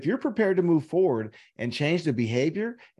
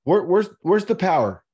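loud rhetorical demand; emphatic loud question; 3 semitones higher, 6 dB louder than usual. Real, not acted. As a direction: push "where's the power" out louder, demanding an answer. Rhetorical challenge to the listener.

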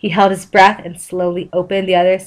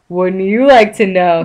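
sarcastic. Acted. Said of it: "he said sarcastically".

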